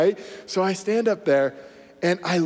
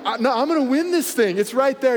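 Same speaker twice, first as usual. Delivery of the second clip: excited insistence; 6 semitones higher than usual. Retold or imitated. Insisting to coach while racing.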